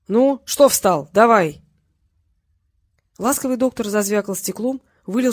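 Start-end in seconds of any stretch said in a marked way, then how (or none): 0.1-1.6 slow, loud, pushing command; impatient shout. Acted. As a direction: hurry him up with a loud bark. Thug pushes the doctor. (громкий нетерпеливый окрик)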